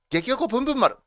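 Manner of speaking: perky gyaru-style 激おこぷんぷん丸; japanese gyaru slang. Shown as a demonstration. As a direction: chirp 激おこぷんぷん丸 like a teen girl. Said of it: "ギャル語でございます".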